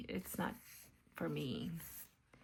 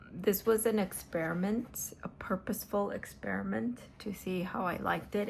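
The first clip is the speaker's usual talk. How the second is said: whispering. Acted. Whispered craft chat.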